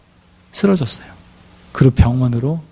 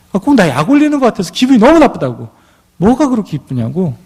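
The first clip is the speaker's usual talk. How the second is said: irritated complaint; 6 semitones higher than usual. Retold or imitated. Teacher complaining to the cleaner, sharply irritated. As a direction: sound provoked and resentful. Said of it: "분이 가득하고 불평이 가득하고".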